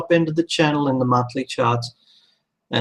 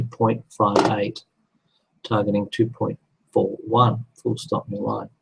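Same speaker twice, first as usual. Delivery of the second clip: dictating; 2 semitones lower than usual. Real, not acted. Dictating punctuation into notes.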